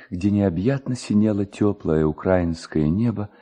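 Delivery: plain reading voice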